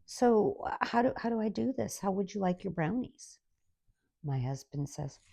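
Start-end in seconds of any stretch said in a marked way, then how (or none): 0.0-3.4 quick, higher confused questions; flustered server. Retold or imitated. Boy at counter quizzing husband, quick and flustered. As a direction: stumble through it like a lost new hire. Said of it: "starts asking questions".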